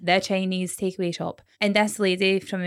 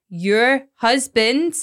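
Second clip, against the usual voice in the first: dramatic announcement; 3 dB louder than usual. Retold or imitated. Sister comes barring through the door, dramatic announcement. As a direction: spell out the news word by word, mock-dramatic.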